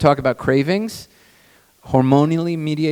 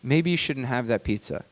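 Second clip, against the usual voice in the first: gentle wife's advice; 6 dB quieter than usual. Retold or imitated. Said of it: "and she would say".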